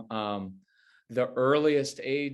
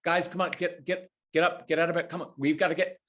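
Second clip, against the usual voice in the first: stressed parent; 4 semitones higher, faster than usual. Retold or imitated. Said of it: "they can hear the anxiety".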